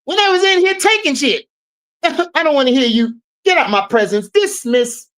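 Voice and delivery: channel Cat Williams scolding an intruder; a hint of Cat Williams dismissing someone; Cat Williams impression. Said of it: "In my Cat Williams voice".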